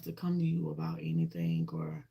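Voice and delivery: whispered aside, no voice; hushed, confiding whisper to viewers. Real, not acted. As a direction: drop to a breathy whisper. Sudden whisper mid-sentence.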